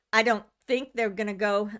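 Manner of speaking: talking around a hair in mouth; distracted by something in mouth. Real, not acted. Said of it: "I got a hair in my mouth or something".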